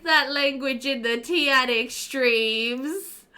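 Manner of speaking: slow, high prim reproach; mock stern. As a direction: lay down the rule primly. Mock strict rule for stream.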